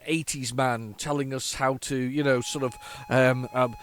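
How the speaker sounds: a hint of a droll Yorkshireman; Yorkshire accent. Imagining an eighties man on a tape giving instructions, light Yorkshire accent. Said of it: "going a Yorkshire accent there".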